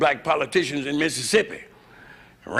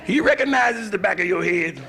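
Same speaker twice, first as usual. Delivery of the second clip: preachy shout; 5 semitones higher than usual. Acted. Shouted punchline.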